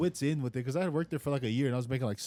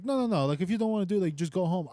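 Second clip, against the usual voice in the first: higher-pitched mock boss, cutting him off; exasperated dismissal; 4 semitones higher than usual. Boss sending worker home, imitated exasperation. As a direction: imitate a fed-up boss brushing off help.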